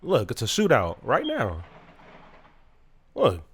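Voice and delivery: low, hushed voice while shots ring outside; real quiet warning about the gunfire; hushed alert. Real, not acted. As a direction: drop the voice as if shooting is close. Gunshots heard outside during recording.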